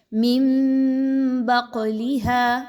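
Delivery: من بقلها with the ن turned into a nasal م, very slow; teacher models iqlab in من بقلها. Shown as a demonstration. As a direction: say من as "mim" before ب, humming. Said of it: "قاف یہاں پر ہلا کر پڑھی جا رہی ہے".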